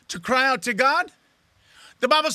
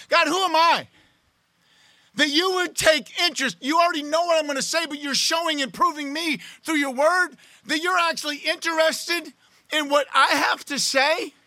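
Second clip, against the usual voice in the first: awed prayer; 4 semitones higher than usual. Acted. Acted prayer of amazement to God.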